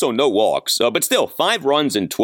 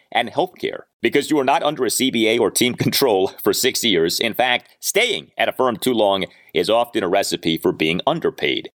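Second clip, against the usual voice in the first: lively sponsor ad read. Acted. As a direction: sell it like a radio spot. Host reads sponsor ad.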